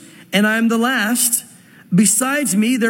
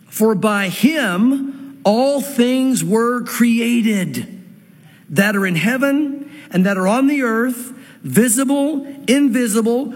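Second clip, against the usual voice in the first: slow, deliberate reading of the verse; slow scripture reading; slower than usual. Acted. Preacher reading Isaiah aloud to the congregation, slow and deliberate. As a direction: let each phrase land, unhurried. Preacher reads Colossians, drawn out.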